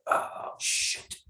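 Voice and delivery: breathy whispered "Oh, shit." under the breath; whispered curse. Retold or imitated. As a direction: let "Oh, shit." slip out as a whisper. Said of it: "and I'm like".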